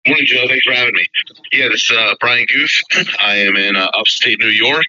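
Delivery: stuffy nose from a head cold; nasal head cold voice. Real, not acted. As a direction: talk through a blocked nose. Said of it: "a little bit of a head cold, so, uh, bear with me, my nasally voice".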